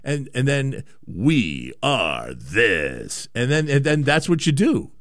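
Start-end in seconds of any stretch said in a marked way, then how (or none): 1.1-3.3 very low, very slow promo boom; big announcer voice. Retold or imitated. Host mocking radio station slogans, deep slow announcer. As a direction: drag it out like a movie-trailer voice. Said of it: "big announcer voice guy".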